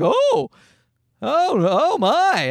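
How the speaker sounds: high, slow prim oh my; mock shock. Dad reenacting his fake shock, high and slow. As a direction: clutch pearls with a drawn-out oh my. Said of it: "That's what I said".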